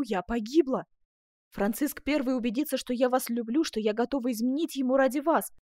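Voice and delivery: loud, high, urgent outpouring; desperate agitation. A narrator's reading. Duchess fearing ruin over her letter, desperate.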